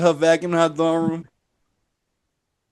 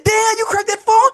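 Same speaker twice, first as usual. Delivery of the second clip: surprised. Retold or imitated. Shocked at her cracked phone.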